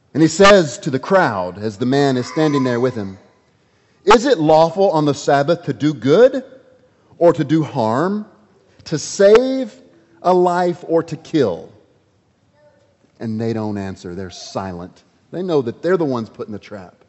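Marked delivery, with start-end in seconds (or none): 4.0-11.7 challenging question. Acted. Jesus challenges the crowd.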